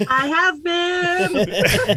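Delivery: hoarse, slow sick voice. Real, not acted. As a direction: croak it out with a cold. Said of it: "You sound like shit".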